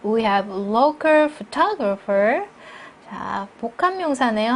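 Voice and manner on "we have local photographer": "local" hit harder than "photographer"; slow model reading, weight on "local"; stress on local. Shown as a demonstration. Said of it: "앞에 강세 주고요". ("local"에 강세를 주어 천천히)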